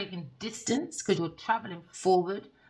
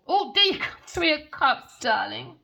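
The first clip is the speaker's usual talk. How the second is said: mock posh darling; 7 semitones higher, 8 dB louder, slower than usual. Mocking the couple's pet talk.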